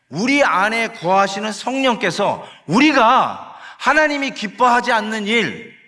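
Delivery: ordinary talk, nothing marked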